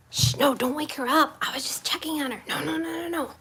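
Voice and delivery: soft hushed pleading. Real, not acted. Hushing to not wake baby.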